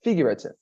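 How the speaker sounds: figurative with the gu syllable pushed; stress demo. Shown as a demonstration. Teacher repeating figurative for the student, stressed. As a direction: hit gu in figurative. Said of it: "like this".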